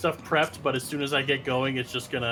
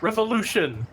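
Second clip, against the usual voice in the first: stiff robotic drone voice; a clipped machine shout; 8 semitones higher, 4 dB louder than usual. Acted. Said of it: "in a robotic voice".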